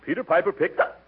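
hiccup cuts off the tongue twister; rushing it breathless, hiccup breaks in; all in one breath. Acted. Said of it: "without taking a breath".

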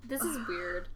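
whispers it under the breath; a hushed embarrassed whisper; whispering this is weird to her friend; whispered aside. Real, not acted. Embarrassed aside while reading.

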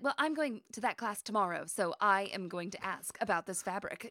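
put-on lightly clipped northern accent; Jane's northern accent. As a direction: imitate a slightly clipped Northeastern woman. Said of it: "a little bit of a clipped northern accent".

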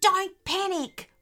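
high, slow reassurance; steady them in a high character voice; reassuring. A narrator's reading. Echidna calming the frightened potoroo, reassuring. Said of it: "reassured the echidna".

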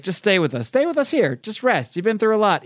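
lightly acted grandmotherly coaxing; coaxing reassurance. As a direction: gently urge someone to stay and rest. Grandmother urges him to stay.

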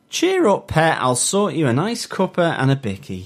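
high, sing-song mock northern English accent; jolly fake-kind northern English accent, pitched high.

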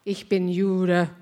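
slow, resolute German statement; squared-shoulders declaration. Retold or imitated. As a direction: say it deliberately, standing your ground. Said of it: "square your shoulders and say".

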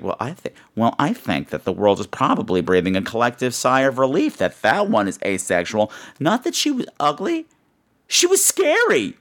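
a hint of a catty friend gossiping; Bradford impression. Friend gossiping about the scary booth lady, light impression. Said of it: "you see, I'm doing Bradford".

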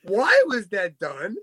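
slow and incredulous, each word spaced out; slowed-down disbelief; baffled, slow rhetorical questions. Real, not acted. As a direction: ask it like you truly can't believe it happened.

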